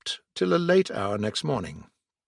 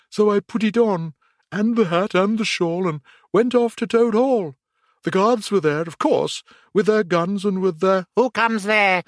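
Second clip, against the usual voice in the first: higher, louder gleeful telling; boastful Mole; 7 semitones higher, 4 dB louder than usual. A narrator's reading. Mole recounting his disguise to friends, higher and louder. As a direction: show off the trick proudly.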